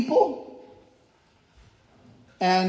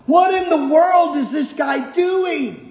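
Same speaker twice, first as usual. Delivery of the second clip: raised-pitch rhetorical question; mock bafflement; 5 semitones higher than usual. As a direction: ask it in exaggerated puzzlement. Preacher's rhetorical outburst at repetition.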